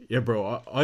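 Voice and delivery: stumbling over the first words; stuttering. Real, not acted. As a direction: catch on the opening word and repeat it. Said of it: "I'm actually stuttering today".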